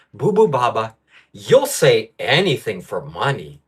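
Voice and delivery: slow, sing-song taunting repeat; a slow mocking echo of the commenter's words; mock parrot of commenter. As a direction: parrot the line back slowly to mock him. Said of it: "I'll give you ten bucks".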